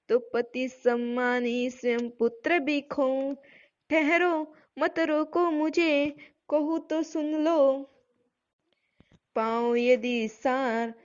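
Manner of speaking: slow, measured verse recital; poem recitation. Acted. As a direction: chant each line slowly like a poem. Teacher recites next verses. (धीमा काव्य पाठ)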